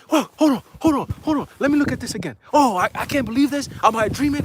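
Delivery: loud, high, flustered disbelief; bugging out. Retold or imitated. Mom hugging her son over the job, flabbergasted. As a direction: imitate an overwhelmed mom, squealing. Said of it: "She's bugging the fuck out".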